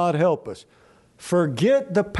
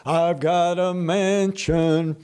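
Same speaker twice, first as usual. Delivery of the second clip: slow, lightly mocking preacher; imitated preacher; slower than usual. Voicing an old preacher's idea of heaven, slow mock reverie. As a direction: draw it out like a preacher dreaming of heaven. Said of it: "you know what his idea of heaven was".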